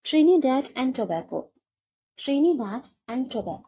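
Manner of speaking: Trinidad and Tobago, each syllable drawn out very slowly; slow, careful pronunciation. Shown as a demonstration. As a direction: say the name very slowly so students catch it. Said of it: "teacher spells out new name slowly". (धीरे-धीरे साफ़ उच्चारण)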